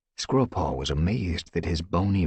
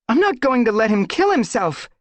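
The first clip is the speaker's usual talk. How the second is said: shriek; 7 dB louder than usual. Acted. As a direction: shriek it in alarm. Squirrelpaw keeps shrieking.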